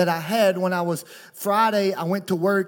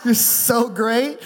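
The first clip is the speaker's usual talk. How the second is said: mock-doting, pitched up; playful shout-out to wife; 4 semitones higher, 4 dB louder, slower than usual. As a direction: lay on the affection for the absent wife, brightly projected. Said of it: "I'm gonna act like she is".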